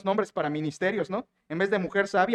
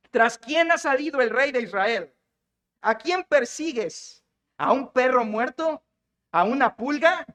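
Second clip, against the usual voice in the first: measured, slightly raised oratorical challenge; slow declaimed scripture questions; dramatic rhetorical questions; 3 semitones higher, slower than usual. Acted. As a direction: draw out each question as a public appeal. David's challenge to Saul, read aloud.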